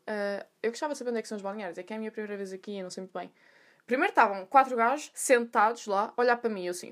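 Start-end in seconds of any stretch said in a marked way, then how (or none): 0.1-3.3 soft, hesitant polite question; nervous newcomer. Retold or imitated. New gym-goer asking for the changing rooms, nervous. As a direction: ask timidly, trailing softer. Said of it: "estava toda nervosinha".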